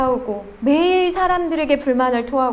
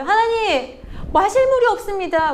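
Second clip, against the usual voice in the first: higher-pitched plea of grievance; acted complaint; 5 semitones higher than usual. Thirsty Israelites complaining to God, acted grievance. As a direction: imitate people complaining up to God. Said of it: "하나님 앞에 원망하잖아요".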